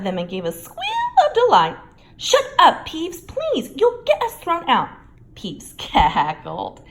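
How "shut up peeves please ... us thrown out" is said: high, loud hushed begging; frantic plea. A narrator's reading. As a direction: beg him urgently to stop. Pleading with Peeves.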